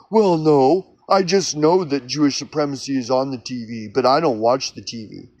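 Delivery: lightly put-on defensive believer voice; mock conspiracy believer. Imagined believer admits he never watches TV, defensive. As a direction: dodge the question, half-hearted excuse.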